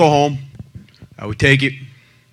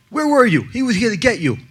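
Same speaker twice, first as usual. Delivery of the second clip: scolding mother; 9 semitones higher, 4 dB louder than usual. Retold or imitated. Mother scolding after smack.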